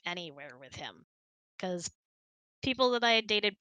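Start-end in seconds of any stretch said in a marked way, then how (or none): none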